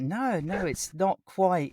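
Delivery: high, placating backpedal; hasty reassurance. Retold or imitated. Man backpedalling to his new neighbour, placating. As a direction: protest politely in a high voice, then slow down.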